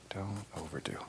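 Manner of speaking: Don't overdo, repeated in a soft whisper. Shown as a demonstration. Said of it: "repeated advice, whispered take".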